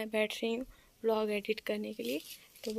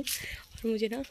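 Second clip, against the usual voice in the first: speaking slowly; slower than usual. Real, not acted. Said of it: "मैं धीरे धीरे बोल रही हूँ".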